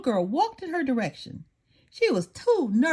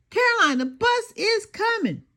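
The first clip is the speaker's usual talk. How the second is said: much higher urgent call; mother shouting; 11 semitones higher than usual. A narrator's reading. Mother warns her daughter the bus is coming, urgent shout. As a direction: yell across the house, the bus is here.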